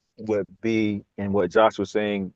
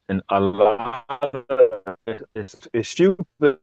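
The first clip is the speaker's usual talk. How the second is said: call dropping out; slower than usual. Real, not acted. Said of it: "Breaking up a little bit".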